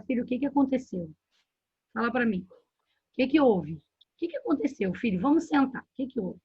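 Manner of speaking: gentle, acted parental inquiry; calm parent asking. Parent asks child what happened, calm and gentle. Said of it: "Antes de sair dando a bronca".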